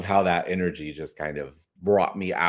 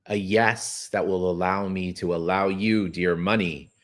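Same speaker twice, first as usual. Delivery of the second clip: tender question. Shown as a demonstration. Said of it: "I want you to ask that money".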